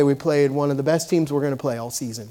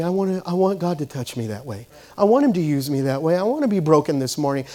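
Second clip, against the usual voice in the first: gently lowered, modelled humble plea; 3 semitones lower, 5 dB quieter than usual. Acted. Believer asks God to use them, humble and understated. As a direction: show them a humble, quieter surrender. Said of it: "with humility".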